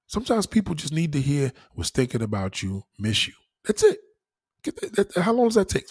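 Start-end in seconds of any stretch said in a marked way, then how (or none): 1.8-3.3 sincere. Shown as a demonstration. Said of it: "We need sincerity".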